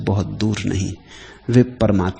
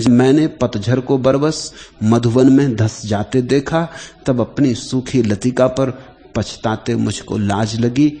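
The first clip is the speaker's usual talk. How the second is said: poetry recitation. Acted. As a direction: recite the poem line by line, unhurried. Recites poem in measured slow lines.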